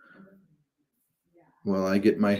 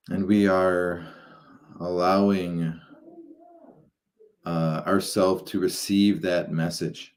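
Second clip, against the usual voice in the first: measured, halting guidance into meditation; guided meditation; 6 dB louder than usual. Acted. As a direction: guide listeners gradually, drawing out phrases and pausing between them.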